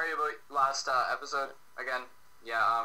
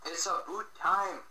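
Canadian accent; 4 semitones higher than usual. Shown as a demonstration. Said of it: "the Canadian accent".

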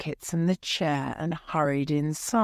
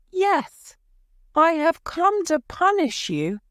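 terrible frightening voice; 12 semitones higher, 4 dB louder than usual. A narrator's reading. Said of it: "in a terrible, frightening voice".

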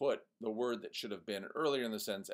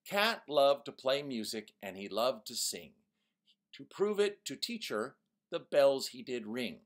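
forced rhyme read; 3 semitones higher, 4 dB louder than usual. Shown as a demonstration. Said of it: "Here's some examples".

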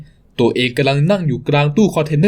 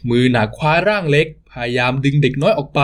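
ordinary talk

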